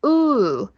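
"呜" as a long English oo from the throat; isolated long oo on "呜"; throaty OO. Shown as a demonstration. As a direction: hold "呜" back in the throat. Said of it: "从嗓子里出来".

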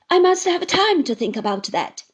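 high, loud stalling; buy time; stalling Uriah. Acted. Uriah stalls Traddles, high and loud.

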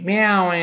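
high meow closing into an N; drawn-out 喵 with a nasal tail; meow with nasal ending. Shown as a demonstration. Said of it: "再加鼻音".

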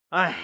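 a long, drawn-out sigh. Acted. Han Xin avoids his friend's question, long sigh. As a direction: let out a long wordless sigh. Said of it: "长长地叹了口气".

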